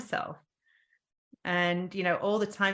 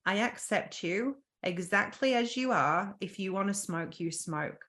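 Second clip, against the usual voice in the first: tender self-talk; 2 semitones higher than usual. Retold or imitated. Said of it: "you're gonna say".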